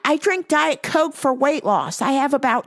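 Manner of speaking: Diet Coke lady. Retold or imitated. Customer explaining her weight loss drink, caricatured and emphatic. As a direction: play a proudly oblivious customer. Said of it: "Here she is, Diet Coke lady".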